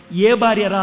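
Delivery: a touch of a king's impatience; loud demand. Retold or imitated. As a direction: bark the question out as the old king. David demands to know which wife.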